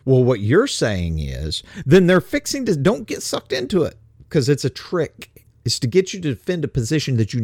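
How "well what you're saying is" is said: mock gotcha. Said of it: "starts with".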